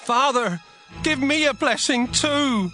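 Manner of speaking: begging son, pitched very high; loud, crying plea. Acted. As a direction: cry out and plead with your father. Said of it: "Esau cried loudly and begged".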